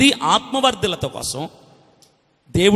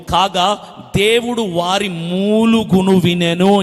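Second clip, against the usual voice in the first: measured, declaimed Bible reading; scripture reading. Real, not acted. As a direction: read the verse out solemnly to a congregation. Reads scripture aloud. (లేఖనాన్ని ప్రకటిస్తున్నట్టు చదవడం)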